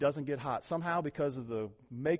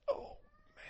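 groaning stiff legs; 10 dB quieter than usual. Retold or imitated. Stiff legs after long drive.

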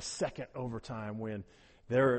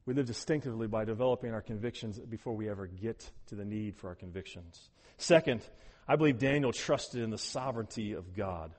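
normal talking voice

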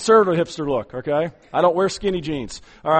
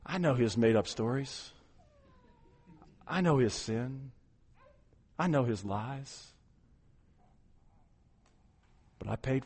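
tender defender; 5 semitones lower, 9 dB quieter than usual. Retold or imitated. Jesus defending Kim before God.

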